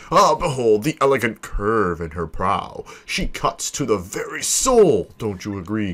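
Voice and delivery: theatrical boast, stretching out the grand phrases; grandiose ship owner. Acted. Vain owner presents his prized ship to visitors, grandiose. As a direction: show off your ship with swooping, savoured emphasis.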